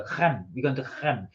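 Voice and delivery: put-on Creme in a light, jokey French accent; mock French accent. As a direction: tease with a French-sounding Creme. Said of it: "I always pronounce it with a really strong French accent".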